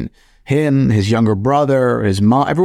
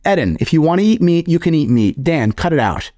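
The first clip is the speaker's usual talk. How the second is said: higher, angry imitation of dad; dad yelling; 6 semitones higher than usual. Dad telling off a guest's son, angry. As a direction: snap at the kids like an angry dad. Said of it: "my dad got super annoyed".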